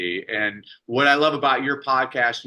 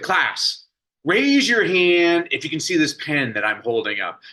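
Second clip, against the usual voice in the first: lightly voiced teacher, a bit higher and bright with purpose; teacher addressing class; 5 semitones higher, 3 dB louder than usual. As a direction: call the class like a lively schoolteacher. Teacher addressing second graders.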